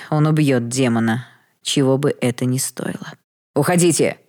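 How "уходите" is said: a sharp loud bark of a command; a dying lord barking at the maid to go; barked order. Acted. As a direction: snap the order out, louder. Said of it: "рявкнул Виктор".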